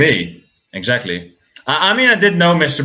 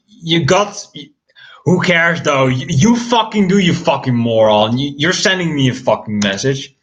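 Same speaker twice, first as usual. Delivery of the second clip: exasperated rant; 3 semitones higher than usual. Retold or imitated. Acted rant at Alex.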